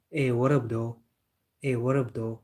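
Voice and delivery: casual US greeting with letters swallowed; casual American accent. Shown as a demonstration. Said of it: "It's U S A, bro. They eat some".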